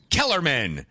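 mock shocked recognition. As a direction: blurt the name in acted shock. Acts Michael's shocked recognition.

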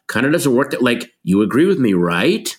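a hint of a weary store clerk; lightly voiced clerk seeking your agreement; retail clerk voice. Actor imitates clerk dismissing a customer, mild retail voice. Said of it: "a retail person's way of going".

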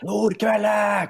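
high imitated shout of a name; Dag Eilev. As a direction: holler it across the pitch, mimicking him. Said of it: "og roper". (etterapet, lyst rop)

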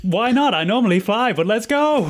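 high-pitched eager owl-person voice; owlin Fugnog, game. Acted.

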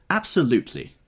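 a sudden loud blurt; sudden outburst. A narrator's reading. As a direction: blurt it out of nowhere. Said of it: "with such suddenness that I started".

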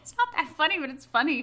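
ordinary delivery

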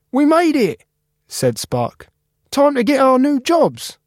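high, upbeat reassuring friend; Spark cheerful. Acted. Spark cheering up Cap about the recycling machine. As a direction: promise him a fresh start.

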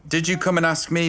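hushed conspiratorial whisper. Real, not acted. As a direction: whisper it so mum can't hear. Dad whispers to daughter.

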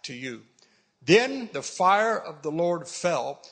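deliberate, emphatic pulpit reading; scripture reading. Acted. Preacher reading Elijah's prayer and the falling fire, emphatic. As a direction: build the prayer with weighty pauses, stressing key words. Reads prayer and climax aloud.

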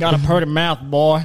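loud mock hillbilly menace; menacing mock threat. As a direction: leer it like a movie villain. Menacing movie quote.

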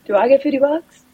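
high-pitched, questioning imitation; mimicked eager friend. Friend asking for her share, eager mimicry.

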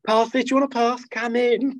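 mock pass handout. Acting out handing mates passes.

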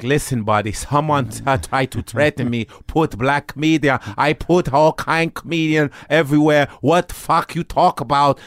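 lightly voiced Persian accent; Jamie Masada accent. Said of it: "like an Asian Jamie you were doing".

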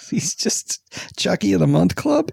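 breathy joking whisper. Real, not acted. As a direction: whisper the joke under your breath. Joking aside after a laugh.

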